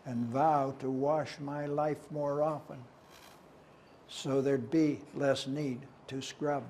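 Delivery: measured, emphatic verse reading; poem recitation. Acted. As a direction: recite it line by line, pausing after phrases.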